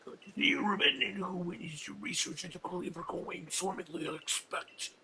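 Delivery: mostly whispered character line; a hushed, lightly voiced gentleman; voicing a game character. Voicing the game character for viewers, hushed. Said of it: "let me voice that".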